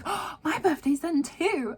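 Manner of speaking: put-on a light little-boy voice, slow and high; childlike Bruno. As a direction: play a naive young boy, lightly. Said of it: "and then Bruno was like".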